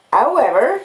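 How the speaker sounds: the kindly blacksmith Joe speaking earnestly to Pip; humble, earnest Joe; Joe's voice. Acted.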